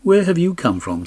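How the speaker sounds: high, loud royal challenge; king's demand. A narrator's reading. King demanding where the stranger comes from, loud and high. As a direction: boom it out as the stern king.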